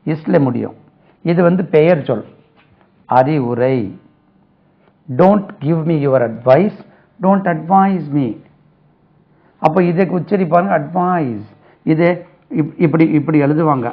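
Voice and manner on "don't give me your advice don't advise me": very slow, each word spaced out; teacher dictating English slowly to students; slow model sentence. Shown as a demonstration. Teacher reading an example sentence aloud, very slowly. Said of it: "slow model sentences".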